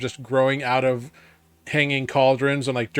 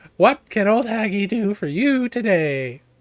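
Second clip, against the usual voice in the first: put-on animated old woman voice, high and swooping pitch; 8 semitones higher than usual. Game master voicing a character welcoming the players in: Haggy, animated old woman. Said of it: "it's an old human woman who seems very animated".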